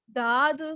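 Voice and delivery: داد with a plain d; wrong daad demo. Shown as a demonstration. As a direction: say داد to show the mistake. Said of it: "یہ تینوں طریقے بالکل غلط ہیں". (غلط تلفظ داد)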